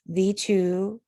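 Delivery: slow pairs of syllables with pauses between; divided by slashes. Shown as a demonstration. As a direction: break "Shall I compare" into spaced two-beat feet. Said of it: "draw on the slashes first".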